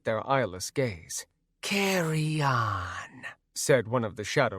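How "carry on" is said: slow, hollow ghostly voice; wraith guard voice. Acted. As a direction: dismiss them like a spirit.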